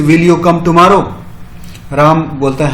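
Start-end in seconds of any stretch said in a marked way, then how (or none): 0.0-1.0 slow, careful model sentence; each word of the question said slowly and clearly; slow teaching read. Shown as a demonstration. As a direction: spell it out slowly for the class. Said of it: "तो इसका English में".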